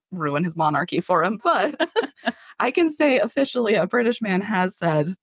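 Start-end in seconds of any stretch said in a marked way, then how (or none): 1.4-5.1 laughing. Real, not acted. Laughing relief after the story.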